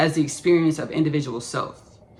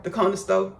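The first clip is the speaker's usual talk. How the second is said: country accent; 4 semitones higher than usual. Shown as a demonstration. Telling of horse rides to the store, country accent. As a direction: say CORNER STORE country-style, like "conna sto'". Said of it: "speaking a country accent on purpose".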